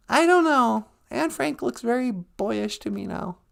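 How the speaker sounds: very high, squeaky little character voice; high-voiced sidekick. Sidekick chatting with the host about the show, high character voice. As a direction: play the host's high-pitched little sidekick.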